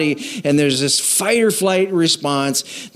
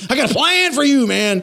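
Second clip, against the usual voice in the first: mock shout; 9 semitones higher than usual. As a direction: bark the plan like a pushy bully. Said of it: "he's shouting at you".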